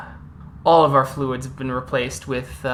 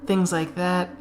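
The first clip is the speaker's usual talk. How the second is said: smug captor; 2 semitones higher than usual. Acted. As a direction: sweet-talk a prisoner into obeying. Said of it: "He goes".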